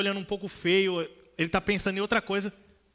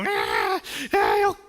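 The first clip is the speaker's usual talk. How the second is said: mock baby cry, pitch leaping; hammed-up infant crying for milk; baby wail; 7 semitones higher, 5 dB louder, much slower than usual.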